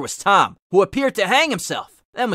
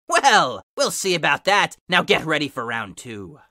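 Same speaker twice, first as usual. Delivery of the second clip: lightly voiced demon taunt; 4 semitones lower than usual. Demon villain answering Steve.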